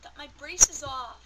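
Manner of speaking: excited shout. Real, not acted. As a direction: shout it out with joy. Repeats the reveal louder.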